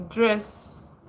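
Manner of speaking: ordinary talk, nothing marked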